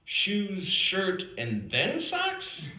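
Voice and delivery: slow, questioning list, rising on "socks?"; "Shoes, shirt, and then socks?" as a baffled recount; puzzled recap. Acted. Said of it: "I even fold my shirt".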